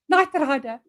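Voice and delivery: put-on light Afrikaans accent of a starstruck kid; lightly imitating a little Afrikaans boy. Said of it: "in his little Afrikaans accent".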